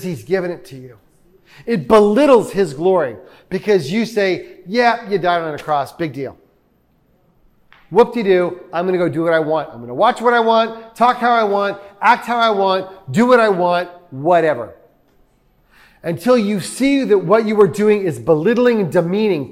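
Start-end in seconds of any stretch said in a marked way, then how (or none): 4.7-6.4 mock indifference, dropping lower and softer; dismissive shrug. Voicing a sinner shrugging off God. 7.9-14.7 mock couldn't-care-less list, sinking on the last word; flippant indifference. Voicing a defiant, indifferent sinner.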